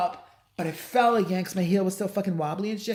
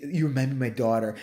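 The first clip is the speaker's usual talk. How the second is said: slightly deepened voice of a flirting man; lightly voiced quote; 5 semitones lower than usual. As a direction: lightly mimic him, pitched lower. Repeats Trump's quote in his voice.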